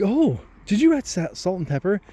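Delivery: high-pitched mock wonder; condescending supervisor, voice lifted high; imitating patronizing supervisor. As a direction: ask as if to a small child. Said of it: "Are you patronizing me?".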